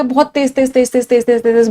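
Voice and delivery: quick-fire run of repeats, demonstrating jabber; machine-gun repetition; rapid jabbering. Shown as a demonstration. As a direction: rattle off the repeated words. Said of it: "जैबर करने का मतलब क्या?".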